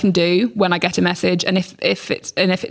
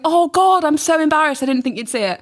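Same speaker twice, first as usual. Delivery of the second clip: mock embarrassed; 8 semitones higher than usual. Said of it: "he replies going".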